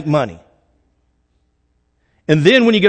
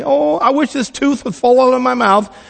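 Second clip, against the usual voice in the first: put-on five-year-old praying; 3 semitones higher than usual. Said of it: "If you're five years old and you're praying".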